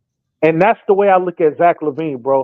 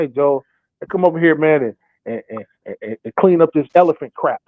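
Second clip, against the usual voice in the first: flat, lower bossy order for a dirty job; dull chore order; 4 semitones lower than usual. Retold or imitated. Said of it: "if you don't wanna do something".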